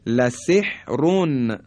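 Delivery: لسحرون with a full, heavy ر, recited slowly; heavy R recitation. Shown as a demonstration. Teacher demonstrates the heavy ر, slow. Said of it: "در اینجا تفخیمه".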